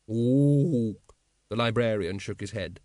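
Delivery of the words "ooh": long animal "ook"; drawn-out wordless hoot; librarian's hoot. Acted. Librarian answers Vimes about another copy, hooting.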